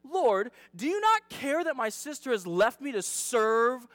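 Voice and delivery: slow, emphatic reproach; acted frustration, stretched key words; super frustrated. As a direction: read it as a drawn-out complaint. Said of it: "this is when you know someone's just, like, just super frustrated".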